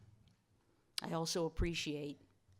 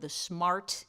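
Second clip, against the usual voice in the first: "smart" leaned on, set off by a pause after it; deliberate weight on the word "smart"; stress on SMART. Real, not acted. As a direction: put the emphasis on "smart", then pause. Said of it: "emphasis on the word smart".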